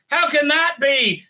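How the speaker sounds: high, loud, slow mock astonishment; mock shocked. Crew member stunned by the discovery, mock shock. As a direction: overplay the gasping surprise.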